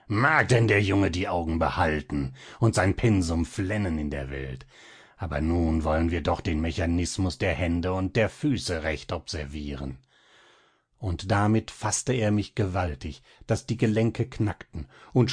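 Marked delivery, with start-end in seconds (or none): 0.1-10.0 a hint of a mocking villain; sinister mockery. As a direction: taunt the boy with cold amusement. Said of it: "Coppelius lachte gellend auf und rief".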